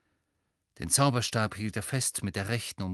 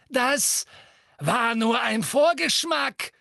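much higher, louder, cruel delighted voice; gloating witch; 11 semitones higher, 5 dB louder, slower than usual. A narrator's reading. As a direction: relish his torment, sing-song. Bellatrix taunting. (grausame, entzückte Hexe, viel höher und lauter)

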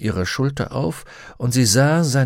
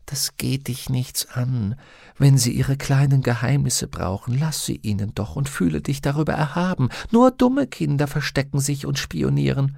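higher-pitched, mildly disapproving companion; a higher voice with a touch of scolding; lightly voiced Pantaleimon, scolding daemon; 5 semitones higher than usual. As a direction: lightly voice a daemon lecturing a child.

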